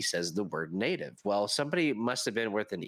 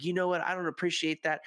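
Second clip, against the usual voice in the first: higher-pitched mock indignation; offended retort; 7 semitones higher than usual. Offended player escalating with the storyteller, offended retort. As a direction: imitate someone taking offence. Retold quarrel before a choking.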